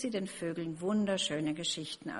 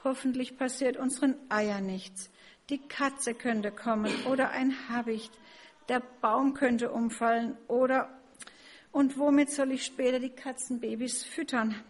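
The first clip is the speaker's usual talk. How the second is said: worried sparrow; 5 semitones higher, 4 dB louder than usual. Acted. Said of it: "machte sich wieder große Sorgen".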